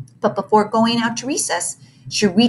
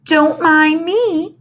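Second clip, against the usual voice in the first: panting; 8 semitones higher, 6 dB louder, much slower than usual. Acted. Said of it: "she panted".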